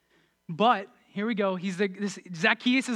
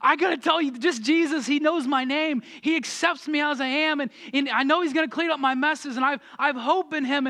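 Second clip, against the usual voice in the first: eager, raised and rushing; imitating a thrilled new believer; excited; 4 semitones higher than usual. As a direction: pour it out with fresh passion. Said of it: "a passion of, like".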